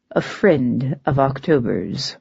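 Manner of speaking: slow, low and unbothered; calm, unshakable reply; imperturbable. Acted. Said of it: "Tybalt's imperturbable reply".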